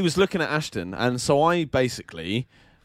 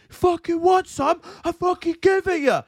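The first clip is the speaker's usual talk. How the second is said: aggressive taxi-queue bloke; 13 semitones higher, 3 dB louder than usual. Retold or imitated. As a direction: square up like a pub hard man. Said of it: "he was like".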